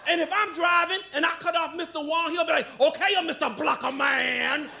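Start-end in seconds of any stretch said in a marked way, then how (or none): 2.8-4.7 mock Asian driver.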